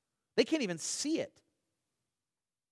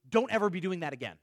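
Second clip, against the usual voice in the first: slow emphasis; faster than usual. Shown as a demonstration. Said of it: "when you put the imperative".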